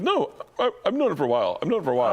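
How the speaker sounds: daughter's quote. Retold or imitated. Daughter insisting she knew.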